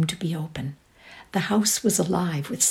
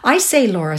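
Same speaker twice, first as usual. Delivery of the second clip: brisk call; 4 semitones higher, 7 dB louder than usual. Acted. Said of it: "said Laurie very fast".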